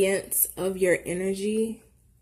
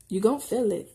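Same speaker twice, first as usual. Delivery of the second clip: lightly drawn country accent; 2 semitones higher than usual. Shown as a demonstration. Reader assuring Taurus they will feel it, country accent. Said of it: "In my country accent".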